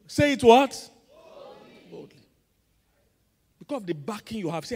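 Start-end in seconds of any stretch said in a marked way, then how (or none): 1.1-1.9 whispered; mock the timid way. Shown as a demonstration. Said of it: "Not timidly".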